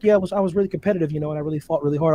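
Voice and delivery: fast, toneless interview rattle; Andre Ward. Acted. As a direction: rush through it like a boring interviewee. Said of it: "He's like, he's like".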